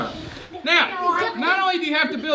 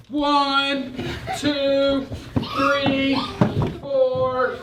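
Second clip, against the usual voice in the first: playful counting; 4 semitones higher, slower than usual. Pretend. Teacher as Polar Bear counting to ten for hiding kid, rising. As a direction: build the count toward ten. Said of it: "I'm gonna count to ten".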